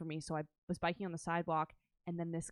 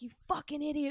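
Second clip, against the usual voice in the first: retold angry outburst; 10 semitones higher, 4 dB louder than usual. Voices the angry dog owner.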